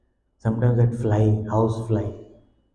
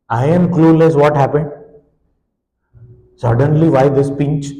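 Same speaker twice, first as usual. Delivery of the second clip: louder, pitched up, bewildered; bewildered outcry; 3 semitones higher, 5 dB louder than usual. Retold or imitated. Bitten baby crying out, confused and louder. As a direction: cry out at the sudden pinch.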